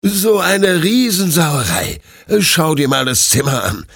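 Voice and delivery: moderately angry owner's reproach; scolding. A narrator's reading. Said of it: "schimpft Detlef".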